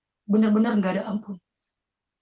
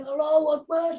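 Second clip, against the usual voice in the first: re-enacted cry; 8 semitones higher than usual. Beaten son crying out to God, high re-enacted wail. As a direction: imitate crying out to God under blows. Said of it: "saya teriak".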